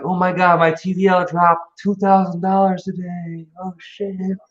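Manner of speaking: slow, whiny mock of a panicking crypto newbie; mock panicked newbie. Mocking friends who panic when their crypto drops. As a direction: ham up a beginner freaking out over losses. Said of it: "And they're like".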